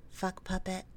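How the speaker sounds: right in your ear. Acted. Trigger phrase in hypnosis.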